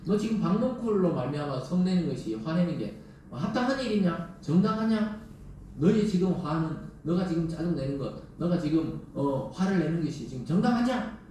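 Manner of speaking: lightly voiced God, pressing questions; a hint of a stern God questioning; God rebuking Jonah. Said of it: "하나님에게 지금 이러는 거예요".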